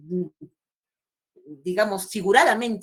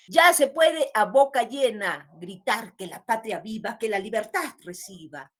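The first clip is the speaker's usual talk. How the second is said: poem recital; slower than usual. Acted. Teacher reading the patriotic stanza to class, slow declamation. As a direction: recite it slowly, stretching the key words.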